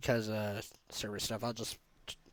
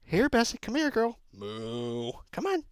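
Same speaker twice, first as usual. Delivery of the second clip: high-pitched call to a cow; farmer calling a cow; 8 semitones higher than usual. Pretend. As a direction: call the cow over, coaxing.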